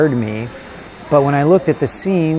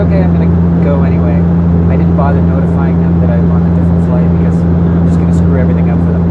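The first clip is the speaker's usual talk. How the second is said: raised voice over loud propellers; talking over engine noise; 6 dB louder than usual. Real, not acted. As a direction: speak up over a noisy cabin. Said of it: "so that's why it's so loud right now".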